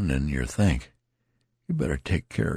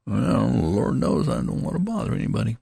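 touch of despair; 9 semitones higher than usual. A narrator's reading. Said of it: "a little accent of despair".

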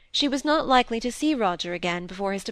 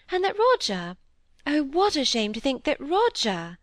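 choked up; 6 semitones higher than usual. Acted. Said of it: "she stopped suddenly short, as if she were choked".

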